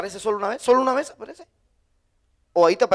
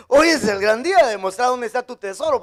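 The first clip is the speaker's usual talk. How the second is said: laughing correction. Real, not acted. Preacher fixing his own slip, laughing. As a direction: say it through a laugh. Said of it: "laughs, corrects himself".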